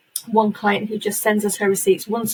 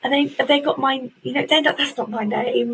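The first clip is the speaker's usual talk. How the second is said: amazed disbelief; 6 semitones higher than usual. Retold or imitated. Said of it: "look at those awards and go".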